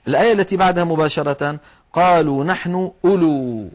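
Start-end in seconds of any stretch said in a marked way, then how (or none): 1.9-3.7 أولو as u-luu; correct silent waw. Shown as a demonstration. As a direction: recite أولو with a short first u, long final uu. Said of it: "هذه يخطئ فيها كثيرين".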